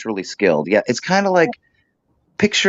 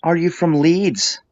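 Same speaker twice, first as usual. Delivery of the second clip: slow, higher, put-on Yorkshire question; Leeds accent; 6 semitones higher than usual. Asking the producer where he is from, in a Leeds accent. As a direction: ask it like a Leeds local. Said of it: "the Leeds accent".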